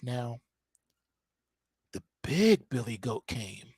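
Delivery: soft, low, half-whispered storytelling; mama's soothing bedtime reading. Retold or imitated. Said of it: "that's not how Mama did it".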